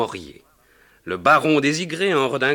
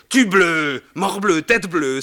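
mock oath, louder; hammed-up curse of an annoyed husband; theatrical old-fashioned swearing; 6 semitones higher, 4 dB louder, slower than usual. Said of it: "sacra François".

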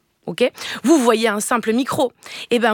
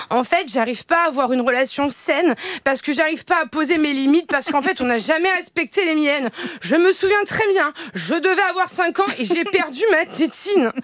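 higher, whiny grown-up complaining to a therapist; the grown child tells the psy about the lost pacifier, higher and plaintive; 3 semitones higher than usual. Retold or imitated. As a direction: plead like a damaged adult on the couch. Adult child at the psychiatrist.

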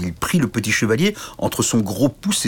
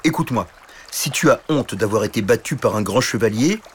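dragon bourru bienveillant; 5 semitones higher than usual. Acted. Dragon console le chevalier.

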